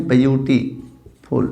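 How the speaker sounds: "ब्यूटीफुल" slowly broken up from its b sound; initial B sound shown. Shown as a demonstration. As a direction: split "ब्यूटीफुल" slowly after byu-ti. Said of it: "बै से बोला गया है". ("ब्यूटीफुल" धीरे, तोड़कर, ब से शुरू)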